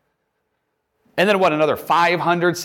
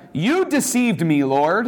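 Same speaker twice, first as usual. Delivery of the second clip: higher pitch on the opening words; mildly indignant accusation; 5 semitones higher, slower than usual. Acted. Jeremiah confronting the Lord, mildly indignant.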